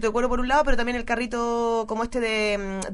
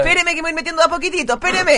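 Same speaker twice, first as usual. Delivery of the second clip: in ice cold water; 8 semitones higher, 5 dB louder, faster than usual. Acted. Lifeguard easing into cold water.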